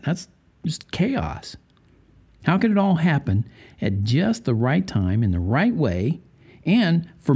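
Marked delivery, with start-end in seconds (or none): 0.0-1.6 slow breathy whisper, unvoiced. Preacher to listeners, marvelling at cell chaos in a slow whisper. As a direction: drop to a hushed whisper as if awed.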